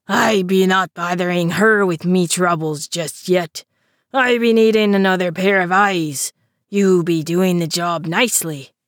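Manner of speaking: a river troll pressing his request; understated troll voice; lightly voiced river troll. Troll Olaf speaks.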